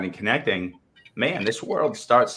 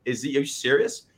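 mildly indignant retold question, pitched higher; higher-pitched mock outrage; livid disbelief; 5 semitones higher than usual. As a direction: act out being livid and incredulous. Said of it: "I'm livid".

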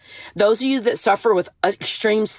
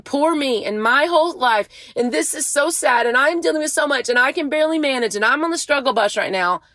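lightly mocking, higher-pitched poor-me complaint; mock self-pity; 4 semitones higher than usual. Showing listeners how the selfish talk, light mock self-pity. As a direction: run the complaints together with a hint of whine.

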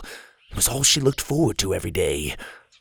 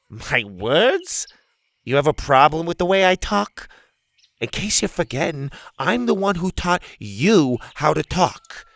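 gruff Bethany voice; 6 semitones higher than usual. Acted.

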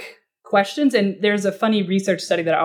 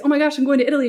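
mock excited client; 6 semitones higher, much faster than usual.

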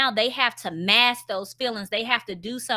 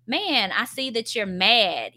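calm acknowledging; slower than usual. Shown as a demonstration. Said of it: "allowing your kids to know".

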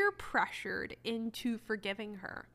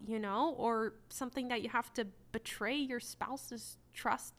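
sarcastic; 2 semitones higher than usual. Acted. Sarcastic parody of cheater logic.

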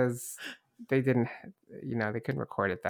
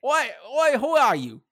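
high, rough guard voice in a bad Irish accent; hammed-up Irish sentry, pitched well up; 4 dB louder than usual. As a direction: call out like a suspicious Irish guard. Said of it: "bad Irish accent".

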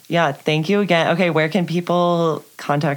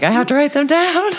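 urgent self-quote; 12 semitones higher, 5 dB louder than usual. Retold or imitated. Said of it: "And I was like".

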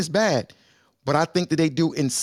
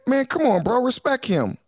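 mocking quote; 9 semitones higher than usual. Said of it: "didn't you hear him just say".

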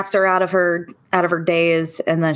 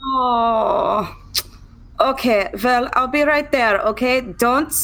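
reassuring friend; 6 semitones higher than usual. Acted. Elsa reassures caller.

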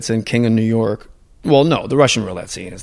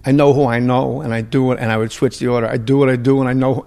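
Christopher Walken impression; 3 dB louder than usual. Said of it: "And I was saying it".

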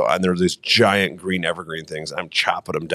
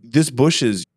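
incredulous; 4 semitones higher than usual. Retold or imitated. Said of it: "And we're like".

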